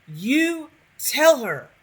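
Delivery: high, loud, drawn-out cheer; egging on. Pretend. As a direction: slowly belt out your backing. Cheers on companion against innkeeper.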